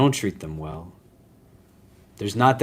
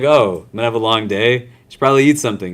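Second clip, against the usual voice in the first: rushed self-talk; 4 dB louder, much faster than usual. Retold or imitated. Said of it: "I was like".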